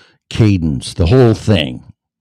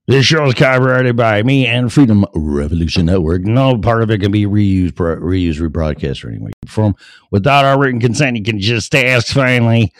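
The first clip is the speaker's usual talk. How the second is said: raised radio-host legal patter; announcer disclaimer; 5 semitones higher, 3 dB louder, faster than usual. Real, not acted. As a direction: rattle through the copyright notice as announcer.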